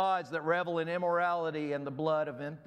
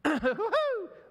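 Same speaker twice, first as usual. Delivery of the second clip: laugh at own voice cracking; 4 dB louder than usual. Real, not acted. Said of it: "Losing my voice".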